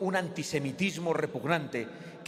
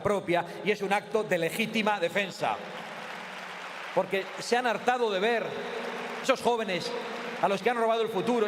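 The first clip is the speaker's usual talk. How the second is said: booming balcony speech; 3 semitones higher than usual. Real, not acted. Rally speech, building indignation.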